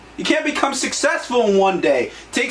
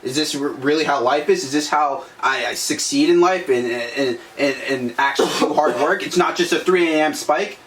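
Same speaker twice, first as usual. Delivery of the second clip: defeated whine; 6 semitones lower than usual. Retold or imitated. Mocking a defeated quitter.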